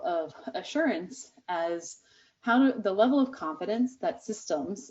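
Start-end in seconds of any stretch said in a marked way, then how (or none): 4.2-4.9 "systems" given deliberate emphasis; stress on systems. Real, not acted. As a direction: lean on the word "systems". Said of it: "I'll emphasize the word systems".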